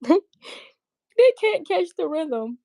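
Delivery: slow, laughing gloat. Real, not acted. Streamer laughing at haters who can't keep up, gloating.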